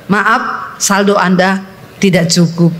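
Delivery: lightly mimicked, low, even recorded-message voice; automated bank message. Bank machine refusing a woman her money, mock automated voice. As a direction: recite it like a machine apologising.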